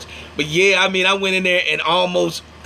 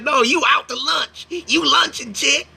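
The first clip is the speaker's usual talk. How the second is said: sassy comeback; 8 semitones higher, slower than usual. Retold or imitated. Retells insulting the clerk.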